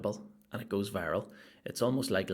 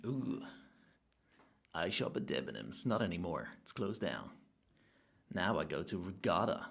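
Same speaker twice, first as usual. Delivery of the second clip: a hint of suave showman, purring; suave crooner. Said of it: "he's real suave too".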